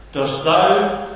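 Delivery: thou pressed hard and held; emphasis on thou. Shown as a demonstration. Preacher pointing out Peter's emphatic thou, stressed. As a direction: hit the word thou. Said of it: "two words very emphatic".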